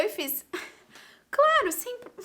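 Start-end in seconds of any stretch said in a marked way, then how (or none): 1.3-2.1 high, loud, over-polite agreement; mock politeness. Polite student agreeing to wait an hour, mock-sweet. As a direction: play the well-mannered student agreeing. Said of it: "como educadinha que sou".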